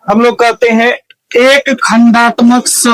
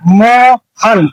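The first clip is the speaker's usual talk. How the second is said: मोहन slowly split as मो, then हन; syllable break; much slower than usual. Shown as a demonstration. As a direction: stretch the मो of मोहन, then drop on हन. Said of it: "आप इसको बोलने का कोशिश कीजिए". (मोहन को तोड़कर धीरे से, मो... हन)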